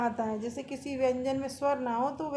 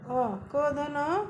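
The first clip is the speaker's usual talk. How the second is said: slow spelling; 2 semitones higher, much slower than usual. Shown as a demonstration. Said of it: "जैसे क".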